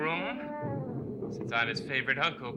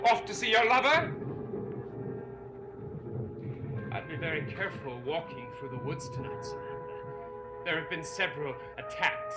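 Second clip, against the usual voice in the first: silky menace; 4 dB quieter than usual. Acted. Veiled threat as she leaves.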